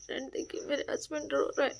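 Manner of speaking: hushed, fast whisper to the camera. Real, not acted. Telling her viewer friend that her husband cries, whispered. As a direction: whisper so he won't hear.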